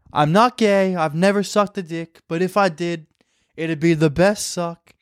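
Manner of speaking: lightly voiced boastful politician; hint of a presidential parody; Donald Trump. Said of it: "it's, like, Donald Trump speed dating?".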